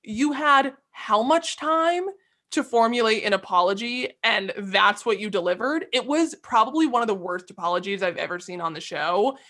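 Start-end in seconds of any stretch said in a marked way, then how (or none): 0.0-8.0 indignant rebuke. Real, not acted. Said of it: "This is all I have to say to Anna".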